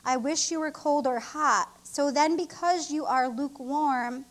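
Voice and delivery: slow, measured reading of scripture. Acted. Minister reading Revelation to the church, slow and solemn. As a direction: read every word deliberately, weighing it.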